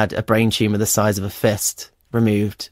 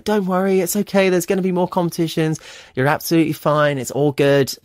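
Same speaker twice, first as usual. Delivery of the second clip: retold reassurance; 7 semitones higher than usual. Dad comforting his crying child.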